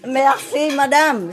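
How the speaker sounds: MERCI with a throaty R, "mehr-SEE madame"; model French phrase. Shown as a demonstration. Asking learners to repeat thanks, French R merci.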